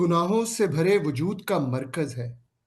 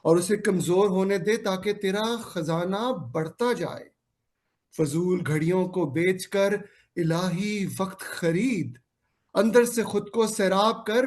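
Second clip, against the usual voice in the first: poem recitation; 2 semitones lower than usual. Acted. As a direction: recite it like a sermon in verse. Recites a Hindi-Urdu poem.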